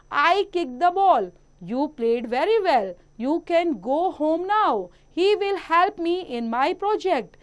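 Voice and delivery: slow, deliberate reading of example sentences; textbook read-aloud. Acted. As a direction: read each sentence out slowly for young pupils. Reads example sentences to pupils. (बच्चों के लिए धीरे-धीरे वाक्य पढ़ना)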